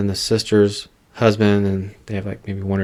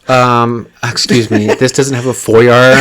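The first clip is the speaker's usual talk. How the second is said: snooty buyer; 4 dB louder, slower than usual. Pretend. Mocking buyer.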